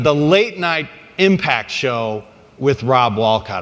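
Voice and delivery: slow hyped promoter pitch; fight promoter. Retold or imitated. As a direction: sell the show title big. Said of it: "in promoter voice".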